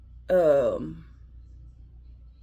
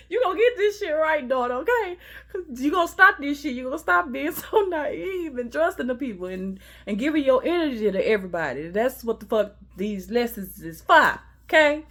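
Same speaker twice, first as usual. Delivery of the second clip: high, half-crying, half-laughing scolding; mock God lecture; 7 semitones higher than usual. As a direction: play God lecturing his daughter, voice breaking. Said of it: "God was, like, knocking my ass".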